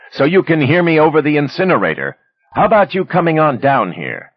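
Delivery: high, loud yell over furnace; yelling over noise. A narrator's reading. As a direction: shout over the roaring incinerator. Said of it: "Manny yelled into the phone".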